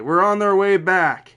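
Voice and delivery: loud, high-pitched shout; angry mom yelling. Retold or imitated. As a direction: yell it like a furious mother down the phone. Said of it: "I could hear yelling in the background".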